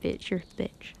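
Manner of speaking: drawn-out, high, offended; indignant retort. Real, not acted. Streamer fires back at the new kid, slow and high-pitched. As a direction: stretch it out, high and huffy.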